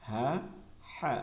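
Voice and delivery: হা said with a whispered breath from the throat; teacher demonstrates a breathy throat ha. Shown as a demonstration. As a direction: breathe out a husky হা. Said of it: "ফিস ফিস আওয়াজে এই হাটা বলতে হবে".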